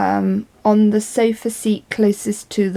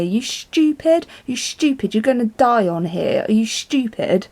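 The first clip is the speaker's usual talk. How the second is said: scornful insult; 3 semitones higher than usual. Retold or imitated. Horrible lady berating the little old lady, scornful. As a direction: imitate a nasty passenger berating someone. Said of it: "and the horrible lady sat down".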